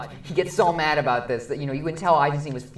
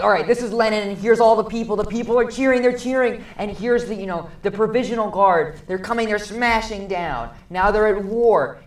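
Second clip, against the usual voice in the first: mock epic narration; 6 semitones higher, 6 dB louder than usual. Narrating the film's bombast excitedly.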